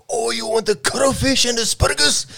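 high, loud mock Asian accent voice. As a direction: squeak it out in a hammy Asian accent. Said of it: "he's doing the Asian voice".

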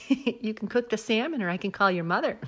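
lightly imitated Midwestern accent, amused; mildly mock-bossy Midwest accent; Cheryl Lipinski. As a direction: quote it with a hint of Upper Midwest accent. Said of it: "a Midwest version".

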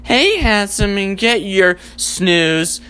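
drawn-out flirty coo; slow sexy snooze alarm. Pretend. Sexy alarm clock cooing at the snoozer. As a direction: coax him gently, slowly. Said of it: "it goes like".

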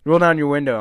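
a hint of the coach barking through the glass; retold coach yelling. Coach yelling at boys in truck, mild mock yell. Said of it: "he starts screaming at us".

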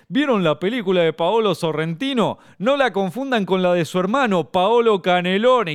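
lightly voiced smug comedian, slowing on the punchline; smug punster. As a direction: savor the pun.

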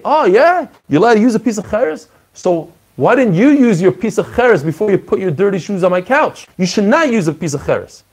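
high, quick sarcastic jab, like catching someone out; mock indignant teacher. Rava scolding the student who dirtied his couch, sarcastic and high. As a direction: scoff at him as if he's been caught red-handed.

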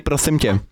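Prosím tě with the tongue between the teeth, s turned to th; lisped prosím tě. Shown as a demonstration. Teacher showing the student the tongue-on-teeth lisp. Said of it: "si šlápni na jazyk".

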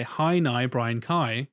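Northern Irish vowels on "Hi, Nye, Brian Kai"; light Northern Irish accent through vowel swaps. Shown as a demonstration. Actor demonstrates an accent trick, Northern Irish. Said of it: "in a Northern Irish accent".

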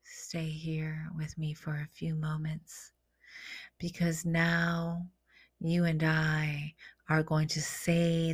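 hushed, unhurried guidance with pauses; guided meditation. Acted. Inviting listeners to claim the words together, hushed meditation voice.

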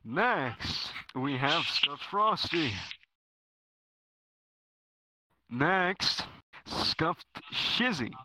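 slow, drawn-out announcer intro; podcast host voice. Acted. Host introducing the next guest, slow announcer voice. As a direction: announce each name slowly and grandly.

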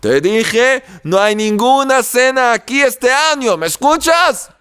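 angry wife yelling at her husband again; angry shout. Acted. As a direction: snap at him that there is no meal. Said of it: "Gritaba la esposa con rabia".

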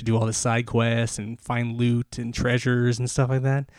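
breathing heavily while talking fast; winded, rushing through the words. Real, not acted. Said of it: "talking so fast and breathing so heavy".

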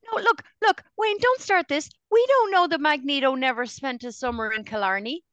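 hammed-up don't-start-this defence; mock protest. To Wayne, jokingly shutting down the accent gripe, mock protest.

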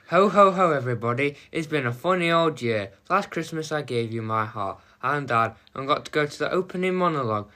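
festive podcast opener, read carefully; lively, lilting scripted greeting; carefully read intro. Acted. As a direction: deliver the Christmas monologue without cracking up. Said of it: "Read the words carefully".

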